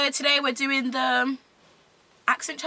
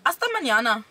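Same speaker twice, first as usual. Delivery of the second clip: confident Spanish phrase; put-on Spanish accent. Shown as a demonstration.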